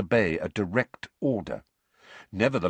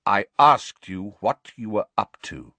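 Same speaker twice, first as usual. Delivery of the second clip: firm, louder demand; cold; 3 semitones higher, 7 dB louder than usual. A narrator's reading. Sirius questioning the elf again, coldly. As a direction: press the question with cold authority. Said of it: "said Sirius coldly".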